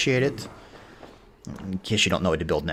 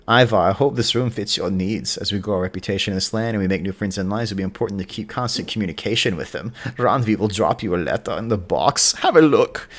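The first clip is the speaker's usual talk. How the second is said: lightly put-on, vaguely Austrian accent; a hint of hammed-up Austrian accent; Sigurd. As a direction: read the letter in a slight mock Austrian accent. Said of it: "this is what I think Sigurd sounds like".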